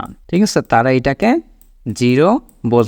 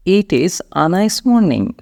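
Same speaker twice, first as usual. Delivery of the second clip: very slow, careful English demonstration; slow model sentence; 4 semitones higher, much slower than usual. Shown as a demonstration. Teacher models a morning phrase for learners, very slowly. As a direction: draw each word out for learners. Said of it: "এরপরে যেটা বলবেন, দেখুন".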